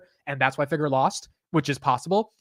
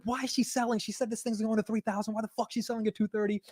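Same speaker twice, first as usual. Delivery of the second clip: higher, upset Italian-American impression of Steve; Steve's Italian voice; 7 semitones higher, 8 dB quieter than usual. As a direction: imitate an irritated Italian-accented friend, pitched up. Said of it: "in the typical Steve Italian voice".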